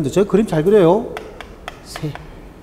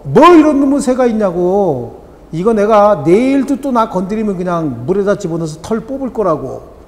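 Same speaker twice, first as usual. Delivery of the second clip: indignant complaint; 3 semitones higher, 4 dB louder than usual. Acted. Woman complaining to the bird's owner, furious. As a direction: threaten the bird through its owner.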